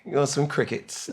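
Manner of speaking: tentative stab at a British accent; lightly put-on British accent; British accent attempt. Shown as a demonstration. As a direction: try out a British accent on request. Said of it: "British accent. Let me hear something".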